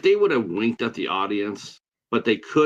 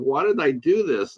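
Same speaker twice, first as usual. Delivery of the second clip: slow, drawn-out, tearful crying lament; 4 semitones higher than usual. Retelling watching a movie that made them cry, imitating own past crying. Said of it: "I'm sitting there crying like".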